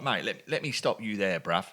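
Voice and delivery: lightly imitated London accent; a hint of London lad; attempted London accent. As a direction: have a rough go at London street talk. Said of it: "my best attempt at a London accent".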